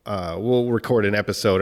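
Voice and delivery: ordinary delivery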